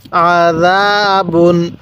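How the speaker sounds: আযাবুন opening on an ain squeezed in the throat; slow আযাবুন with a pharyngeal first sound; throat-pressed ain. Shown as a demonstration. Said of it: "আইনটা গলার মধ্যে চাপ দিলে".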